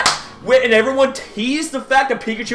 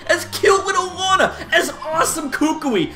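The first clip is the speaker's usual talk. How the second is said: laughing; 4 semitones higher than usual. Real, not acted. Laughs while listing characters.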